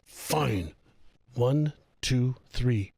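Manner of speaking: mildly cross compliance, spaced out word by word; grudging, angry mother. Retold or imitated. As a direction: imitate an annoyed, reluctant count. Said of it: "She looks at me angrily".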